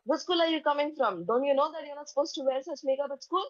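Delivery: imitating an outraged teacher's telling-off; enraged teacher. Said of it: "she's very enraged first thing in the morning".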